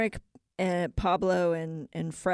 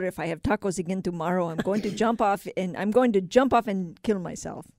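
put-on lightly accented, fed-up worker; a hint of a put-on Pablo voice; character voice; 3 dB louder than usual. Construction worker fed up with tacos, lightly put-on voice. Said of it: "I love it when people do voices".

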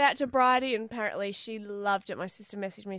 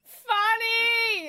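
laughing; 12 semitones higher, 8 dB louder than usual. Real, not acted. Laughing exclamation.

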